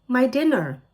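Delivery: insist, exasperated; insistent. A narrator's reading. Ellie insisting to grandma.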